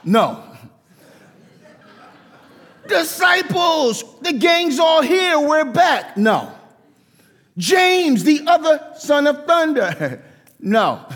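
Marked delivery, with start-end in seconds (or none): 2.9-6.2 excited reunion shout. Pretend. Imagined John shouting to the disciples, gleeful high shout. 7.6-10.2 high, bright call out to a brother; cheerful greeting. Pretend. Imagined John hailing James, high cheerful call.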